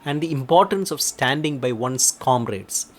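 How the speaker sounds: ordinary talk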